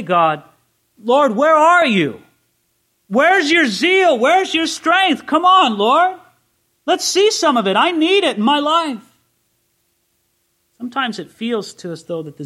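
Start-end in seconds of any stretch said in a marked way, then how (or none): 0.0-9.2 desperate prayer. Acted. A believer crying out to God, raised and pleading. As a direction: call out to God, demanding to see his strength. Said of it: "you shouldn't say".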